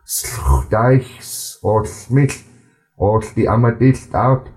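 unhurried storytelling read-aloud; slow careful reading. Shown as a demonstration. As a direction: read it slowly in a gentle even flow for learners to follow. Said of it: "I'm gonna read it a bit slower".

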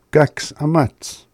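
mildly worried question about a missing person; impatient asking. Acted. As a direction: wonder aloud where someone late has got to. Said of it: "You're like".

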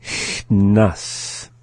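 CHNAS stretched, long hiss held before NAS; slowly. Shown as a demonstration. Teacher going through the word for learners, slowly. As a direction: draw out CHNAS part by part. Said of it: "go through the same process".

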